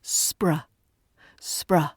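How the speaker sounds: "spr" as one smooth cluster; blended spr. Shown as a demonstration. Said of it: "So put it together".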